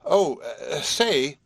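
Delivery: high, hesitant hail; calling out. A narrator's reading. Horace calling to Marcia down the stairs, high hail. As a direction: call over the banister after someone leaving. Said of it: "called the prodigy again".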